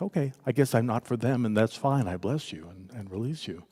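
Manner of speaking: understated, peaceful blessing; calm acceptance. Retold or imitated. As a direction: gently release them, quietly. Calm letting go of critic.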